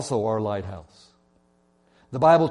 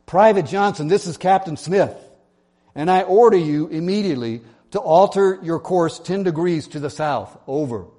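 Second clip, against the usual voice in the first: loud, higher angry order over the radio; shouting captain; 4 semitones higher, 5 dB louder than usual. Acted. Captain shouting back at the private over the radio, furious. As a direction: bark the order like an outraged captain. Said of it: "the captain shouted back over the radio".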